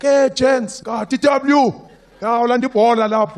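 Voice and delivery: high, loud excited greeting; excited kid. Retold or imitated. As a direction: burst in with good news.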